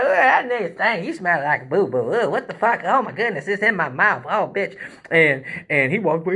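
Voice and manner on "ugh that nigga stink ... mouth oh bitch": hammed-up crowd revulsion, pitched up; mock disgust. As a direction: imitate several people reacting to a stench. Imitates crowd hit by the stench.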